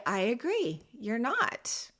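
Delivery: calm agreement. Shown as a demonstration. Parent calmly agrees with the upset son. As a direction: settle it down gently. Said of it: "So then I calmly say".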